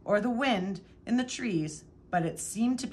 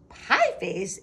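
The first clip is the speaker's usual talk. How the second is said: sputtered; 5 dB louder than usual. A narrator's reading. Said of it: "Abel sputtered".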